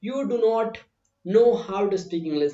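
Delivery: slow, with "do not" said as two full separate words; full form demo. Shown as a demonstration. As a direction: spell out "do not" in full, slowly. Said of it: "थोड़ा सा अच्छा नहीं लगता है". (धीमे, "do not" पूरा अलग-अलग बोलो)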